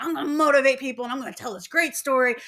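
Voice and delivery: gung-ho mimic of Jim; hammed-up eager motivator; eager mock Jim. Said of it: "He's like".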